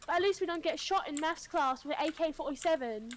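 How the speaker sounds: mock British self-defence; exaggerated British retort; British accent. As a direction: play a defensive Brit. Continues as defensive Brit.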